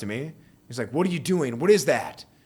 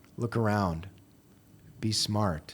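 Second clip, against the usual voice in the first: very quiet, hushed voice; 4 semitones lower, 5 dB quieter than usual. Retelling a scam at a store, the speaker quotes her warning, retelling a real quiet voice. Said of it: "real, real quiet voice".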